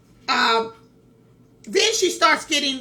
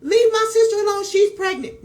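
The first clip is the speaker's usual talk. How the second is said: mock scream, pitched up and held high; retold screaming; 6 semitones higher than usual. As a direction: imitate a woman screaming at police. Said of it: "she then starts screaming at the police".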